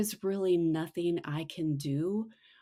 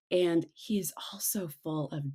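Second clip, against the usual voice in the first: whisper; 2 semitones lower, 6 dB quieter than usual. Acted. Whispered aside.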